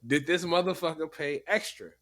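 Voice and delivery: mock outraged passenger rant; ranting like the angry man; quoting an angry passenger. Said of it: "I quote".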